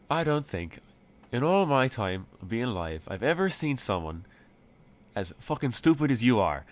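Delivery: weary disbelief at a fool; annoyed leprechaun. Acted. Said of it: "looks absolutely annoyed at our presence".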